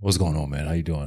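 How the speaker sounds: very low, very deep, rumbling rocks-in-the-mouth voice. Asked for a Mike Harris impression, the speaker gives a deep Mike Harris impression. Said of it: "It's very deep".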